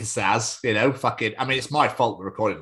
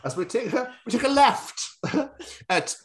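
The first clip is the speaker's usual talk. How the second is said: a hammed-up host intro; lightly hammed presenter voice; mock presenter. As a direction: play a cheesy show host. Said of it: "We're like".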